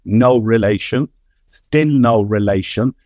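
put-on slow Kerry accent commentator; a drawn-out Kerry broadcaster voice; Micheál O'Mara Hertig Kerry accent. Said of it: "as Micheál O'Mara Hertig would say".

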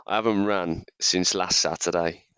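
hoarse sick voice; croaky voice. Real, not acted. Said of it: "as you can hear by my croaky voice".

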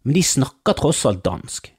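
ordinary talk

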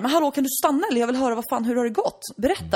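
high, loud retold outrage; demanding father. Father shouting after the departing doctor, high and loud. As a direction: call after the doctor in mock indignation. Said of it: "pappan är så här".

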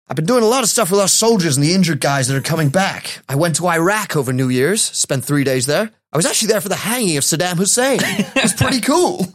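high-pitched hammed-up athlete's quote; Jim McMahon. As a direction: read it as an upbeat mock jock. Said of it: "I've found this quote from him".

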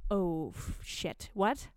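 mock panic. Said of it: "little panic that was like".

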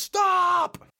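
loud, high, long mock shout; retold yell. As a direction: shout the halt, imitating a drill commander. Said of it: "and he yells".

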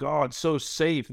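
high, slow mock-naive voice. Mocking people who call a steady job safe, high and slow.

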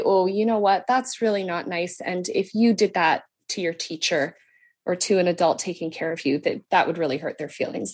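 calm, gentle correction; mild, patient parent voice; placid. Shown as a demonstration. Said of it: "I react in a very placid way".

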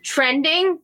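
lips barely moving; can't open the mouth; mouth stuck. Real, not acted. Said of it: "I can't open my mouth".

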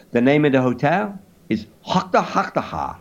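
put-on French accent, matter-of-fact; caricature French accent. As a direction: give directions in mock-French English. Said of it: "in a caricature French accent".

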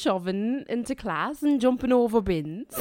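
Northern Irish slipping into Liverpool; broad Northern Irish drifting Scouse; Northern Irish accent. Acted. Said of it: "Northern Irish for way of Liverpool".

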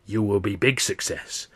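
lightly voiced old fortune teller; a hint of a rasping seer, stressing very; mildly mystic old woman promising success. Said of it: "this old Chinese woman says".

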